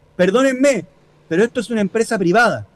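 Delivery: ordinary talk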